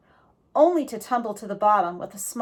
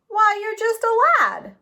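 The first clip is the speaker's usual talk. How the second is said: higher, louder, surprised; stranger amused; 11 semitones higher, 5 dB louder than usual. A narrator's reading. The stranger seeing Jack is a boy, surprised. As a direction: say it with a surprised chuckle. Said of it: "the man said".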